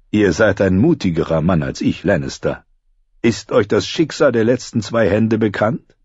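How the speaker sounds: Littlefinger voice. Acted. Littlefinger speaks to Tyrion.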